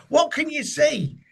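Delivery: high, slow, peering shopkeeper voice; Arkwright asking. Retold or imitated. Arkwright asks the helmeted man what he sees, high slow voice. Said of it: "says Arkwright".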